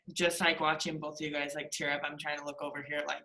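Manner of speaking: teared-up friend speaking softly to the group; holding back tears. Real, not acted. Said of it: "I'll start fucking crying".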